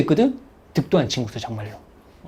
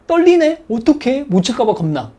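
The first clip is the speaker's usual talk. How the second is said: a hammed-up flustered student; panicky student; 6 semitones higher than usual. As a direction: act out a nervous student fretting. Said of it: "이게 진짜 위험한 거야".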